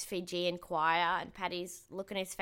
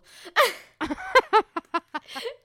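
high loud burst of laughter; 13 semitones higher, 12 dB louder than usual. Real, not acted. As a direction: cackle loudly at the joke. Laughing at funny clip.

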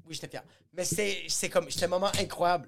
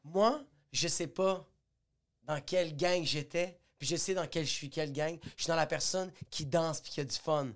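mock stage punchline; 2 semitones lower, 6 dB quieter than usual. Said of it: "je dis".

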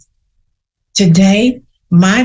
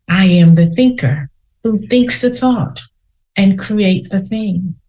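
slow affirmation. Shown as a demonstration. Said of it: "Say that to yourself three times".

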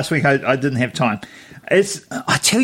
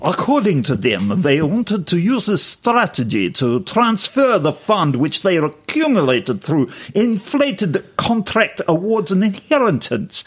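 put-on Russian accent. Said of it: "We'll try Russian".

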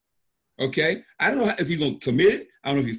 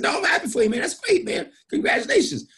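much higher, laughing congratulations; mock cheer; 12 semitones higher than usual. Retelling his overjoyed answer to an excited caller, laughing and high. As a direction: overdo the joy with a laugh.

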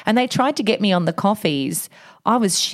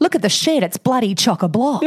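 lightly hammed-up Aussie exclamation, pitched up; mock amazement; 4 semitones higher than usual. Co-host acting out a chock-a-block example, mock amazement. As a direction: exclaim it higher, playing at being amazed.

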